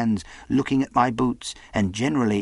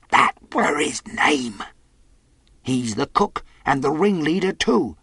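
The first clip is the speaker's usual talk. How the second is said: higher, agitated sailor; castaway voice; 6 semitones higher than usual. Acted. Boy and castaway discuss Silver, high insistent sailor voice. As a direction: spell it out in a high character voice.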